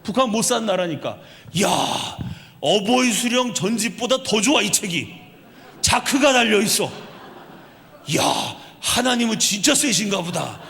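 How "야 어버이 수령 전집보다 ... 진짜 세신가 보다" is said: excited North Korean marveling at a zipper; amazed defector. Retold or imitated. Defector retold marveling at a zipper Bible, mock excited. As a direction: gush over the leather Bible, half-acted. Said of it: "이러고 이 자크를 보고 감동받아서".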